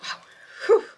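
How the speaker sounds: breathless after the stairs; out of breath. Real, not acted. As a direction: talk while catching your breath. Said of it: "I'm out of breath".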